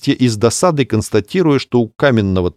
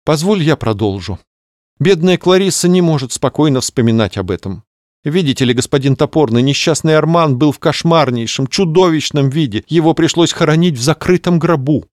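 higher, theatrical society lady; gossipy lady voice; 6 semitones higher than usual. Acted. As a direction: tell it with mock pity. Melissa tells the story. (манерная светская дама)

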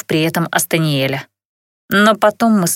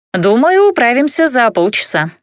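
dwarf woman voice; 5 semitones higher than usual. Acted.

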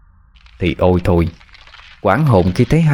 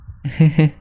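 high ghostly tittering laugh; a creepy girlish giggle; eerie giggle; 7 semitones higher than usual. A narrator's reading. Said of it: "một giọng cười hí hí phát ra".

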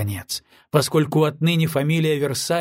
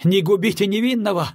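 pleading cry; 6 semitones higher than usual. A narrator's reading. Captain on his knees crying out to the general. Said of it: "закричал капитан".

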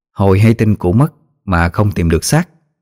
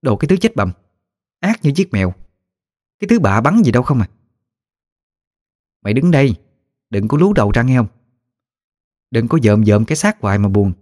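put-on higher, cursing old granny ghost; higher country-granny voice, fired up; feisty old ghost woman; 3 semitones higher than usual. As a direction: comfort her, then rail at the villain. Old ghost comforts then rants.

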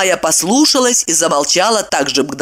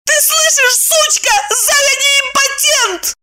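much higher tearful shriek. A narrator's reading. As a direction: squeal it at her rival. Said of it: "взвизгнула Майя".

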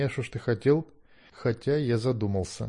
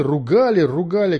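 dismissive; 4 semitones higher, 6 dB louder than usual. Acted. Dismissing the scolding.

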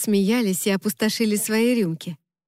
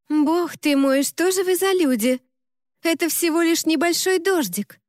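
higher, exasperated scoff at the crowd; mock-dismayed cry at people fleeing light rain; exasperated exclamation; 8 semitones higher than usual.

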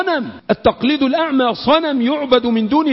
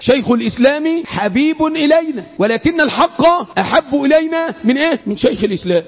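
raised, ringing recitation that drops on the final answer; emphatic repetition for memorising; 3 semitones higher than usual. Shown as a demonstration. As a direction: drive the saying home, pausing to quiz listeners. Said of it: "أعيدها تالت".

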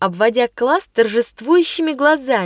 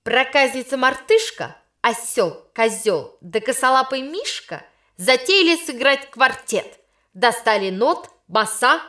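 insolent; 2 semitones higher than usual. Acted. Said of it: "начала дерзко".

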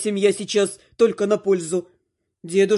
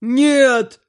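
loud sharp no; son-in-law's loud outburst; cry from the heart; 4 semitones higher, 6 dB louder than usual. Acted. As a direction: blurt out a loud refusal. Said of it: "это был крик души".

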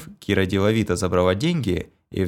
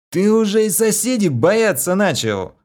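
high, loud amazed question; surprised; 12 semitones higher, 5 dB louder than usual. A narrator's reading. Vlas asks in loud surprise about fearing neighbours. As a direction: ask it in loud disbelief. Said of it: "удивлённо спросил Влас".

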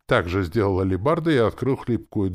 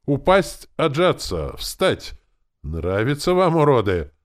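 loud, high punishment commands; furious sergeant shouting; barked orders; 9 semitones higher, 8 dB louder, slower than usual. A narrator's reading. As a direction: fire orders at the recruits. Sergeant orders push-ups, insults prisoners.

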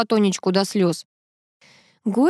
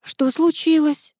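faint voice; 8 semitones higher, slower than usual. A narrator's reading. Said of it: "обморочным голосом спросила Мартынова".

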